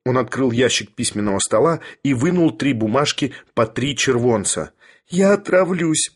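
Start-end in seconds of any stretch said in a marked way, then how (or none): 5.1-6.1 high-pitched tearful threat; crying. A narrator's reading. Young lady threatens to poison herself, crying. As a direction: cry it out in a high voice. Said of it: "плакала барышня".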